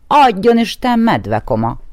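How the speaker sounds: bright high greeting, then dropping; horse's greeting. Acted. The white horse greets the bear, bright and high.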